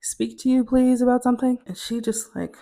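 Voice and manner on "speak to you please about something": polite, halting request; tentative request. Retold or imitated.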